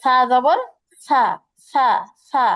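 সা said soft and light, slowly; soft Arabic sa, slow demo. Shown as a demonstration. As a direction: let সা flow gently without pressure. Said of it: "নরম করে".

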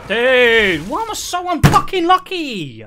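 loud, high wail of frustration; exasperated outburst. Real, not acted. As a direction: shout out your exasperation at bad luck. Outburst at bad luck in game.

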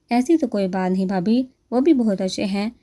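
ordinary delivery

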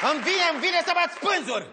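comic therapist losing his mind; exasperated outburst. Acted. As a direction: blurt it out at the end of your tether. Therapist driven mad by patient.

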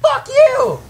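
high, loud outburst; angry shout. Real, not acted. Gamer cursing an opponent, angry shout. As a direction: yell it up high in real anger.

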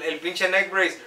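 lightly acted accident victim testimonial in Spanish; insurance commercial testimonial. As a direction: tell the crash story like a mock ad witness. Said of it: "we need to do your insurance commercial".

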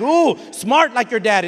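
mocking drawn-out Ooh, dripping irony; sarcastic jab at the child's father. Shown as a demonstration. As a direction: sneer the compliment so it stings. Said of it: "and not be all sarcastic".

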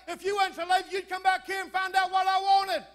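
high, loud retort; hollering back. Retold or imitated. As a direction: act out yelling back from the far room. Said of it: "And I'd holler back".

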